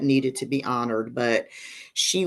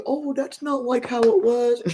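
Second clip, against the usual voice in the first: mock excuse; 8 semitones higher than usual. Mimics someone making excuses.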